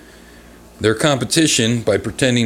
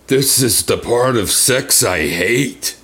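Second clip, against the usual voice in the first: put-on old miser voice; 2 semitones higher, slower than usual. Miser punchline in a joke.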